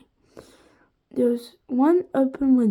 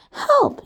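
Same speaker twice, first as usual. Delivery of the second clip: sneezed cry; 12 semitones higher, 5 dB louder than usual. A narrator's reading. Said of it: "he sneezed".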